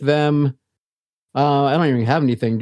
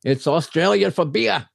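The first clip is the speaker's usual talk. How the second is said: drawn-out mock Australian ad slogan; attempted Australian accent; 3 semitones higher, slower than usual. Host greeting chat friend like a beer advert, Australian accent. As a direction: put on a loose Aussie accent. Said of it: "get my accent down".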